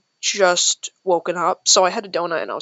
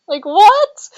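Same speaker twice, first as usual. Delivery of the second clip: high, loud disbelieving what; shocked; 11 semitones higher, 9 dB louder than usual. Real, not acted. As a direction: blurt it out in disbelief. Disbelief at ease.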